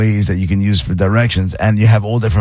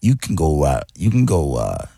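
disco DJ voice; 2 semitones lower than usual. Retold or imitated. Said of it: "One of the other ones is like".

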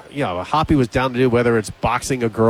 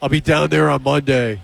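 lightly imitated dude voice; Ryan Hoppy; 3 semitones higher than usual. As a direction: lightly put on a drawn-out bro voice. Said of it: "I didn't know he talked like that".

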